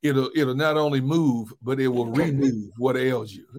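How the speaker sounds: a lightly voiced R&B DJ, slowed down; R&B radio DJ voice. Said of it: "your R and B radio D J voice".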